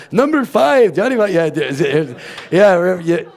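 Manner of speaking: high, eager excited burst; suddenly lit up, remembering the funny guy; excited recall. Real, not acted.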